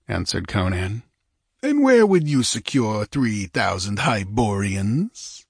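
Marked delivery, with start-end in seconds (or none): 1.6-5.4 sarcastic. Acted. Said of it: "asked Olgerd with vast sarcasm".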